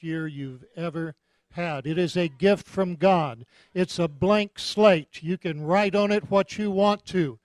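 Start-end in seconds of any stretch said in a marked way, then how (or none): 1.9-7.4 loud, declarative pulpit delivery; emphatic preaching. Real, not acted. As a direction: proclaim it firmly to the congregation. Preaches New Year blessing.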